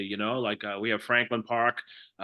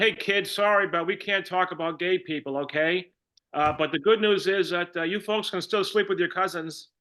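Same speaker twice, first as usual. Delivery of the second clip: lightly acted teacher, pitched up; a hint of an apologetic schoolteacher; mock teacher; 6 semitones higher than usual. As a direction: address a class with mock apology, higher voice. Acted teacher breaking news to pupils.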